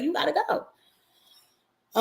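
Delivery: high, slow, put-on dismissive voice; imitating Trump firing someone. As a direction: drag it out as a mock boss firing someone. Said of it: "was like".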